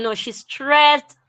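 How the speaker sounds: stressed slowed right down; slow, pointed stressed. Shown as a demonstration. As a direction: draw out stressed, no "on". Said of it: "so you don't say she stressed on".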